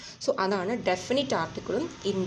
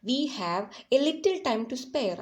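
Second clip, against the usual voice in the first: "little" said slow with a raised pitch; stress on little; 4 semitones higher, much slower than usual. Shown as a demonstration. Teacher showing stress on "little". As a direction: lean on "little" slowly. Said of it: "stress ചെയ്ത് പറയും".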